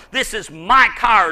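"my" punched before "car"; stress on my. Shown as a demonstration. Preacher showing how personal the word is, stressed "my". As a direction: lean hard on "my" to show possession. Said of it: "uses the word my".

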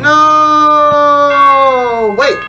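loud, high panicked cry; scared horror game streamer. Real, not acted. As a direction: yelp in fright as it gets you. Caught by animatronic.

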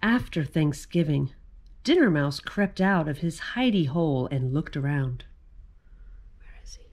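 put-on lively read-aloud for children; story narration. A narrator's reading. Reading the mouse picture book to children, lively read-aloud. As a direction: tell the mouse tale to little listeners.

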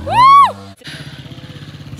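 high, loud whoop; joyful whoop. Real, not acted. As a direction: whoop in triumph. Top of climb whoop.

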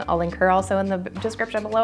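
short of breath while talking; breathless, running out of air. Real, not acted. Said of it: "I'm running out of breath".

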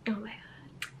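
awed breathless whisper; real hushed whisper. Real, not acted. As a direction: whisper it in awe. Amazed by Play-Doh smell.

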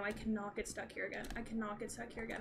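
low, soft, fast repeated mutter; despairing mutter. Real, not acted. Player dreading being stuck again, low fast mutter.

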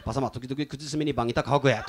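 put-on Tsugaru dialect aside to an old woman; Tsugaru dialect remark. Shown as a demonstration. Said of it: "こういう感じでね".

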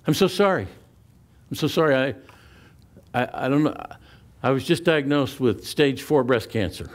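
high, rushed, distraught apology; a woman near tears apologizing to the line; upset apology. Retold or imitated. Distressed shopper apologizing to the cashier and line, high and upset.

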